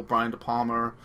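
Long Island accent with an r-colored "Palma". Real, not acted. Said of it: "my Long Island accent came out".

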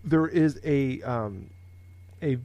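stifled burp. Real, not acted. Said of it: "excuse me, I had a burp".

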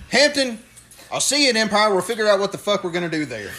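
Tank. Retold or imitated. Tank to Hampton while walking out, imitated parting call. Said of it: "he looks at me and says".

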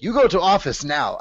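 half-laughing impression of the stern teacher; mock teacher scolding. Teacher ordering him to the office, mock stern and laughing.

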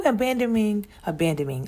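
"abandoning" tripped over and tried twice; stumbled word. Real, not acted. Mom podcaster struggling to say a word, "abandoning" stumbled over. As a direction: fumble the middle of "abandoning". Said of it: "I can't even say that word".

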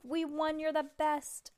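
high-pitched victory cheer; elated kid who just won; jubilant celebration. A narrator's reading. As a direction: celebrate with your champion. Stink celebrating his victory.

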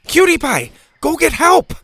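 very high, loud urgent call. A narrator's reading. Bo sends the pig for help, calling loudly. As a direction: holler an order to someone below. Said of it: "Bo called down to her".

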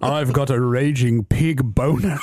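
slow, deadpan announcement cracking into laughter; hammed-up Daddy Pig. Host voicing Daddy Pig's big line, slow mock pride. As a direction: declare it proudly like a cartoon dad.

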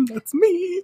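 high, preening falsetto; high preening boast; smug shop manager. Retold or imitated. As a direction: bask in the praise, squeaky and proud.

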